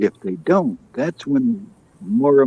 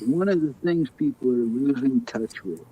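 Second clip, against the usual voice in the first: muffled, as if through a pillow; talking through a pillow; 2 semitones higher, 4 dB quieter than usual. Real, not acted. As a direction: speak with the mouth covered by a pillow. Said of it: "Carl, are you talking through a pillow?".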